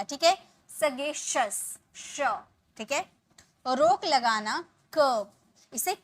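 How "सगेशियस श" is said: सगेशियस as "sa-gay-shus"; sh ending. Shown as a demonstration. Teacher points learners to the sound, sh. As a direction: say सगेशियस with sh in the last syllable, then श alone. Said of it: "यहाँ पे श का sound आएगा".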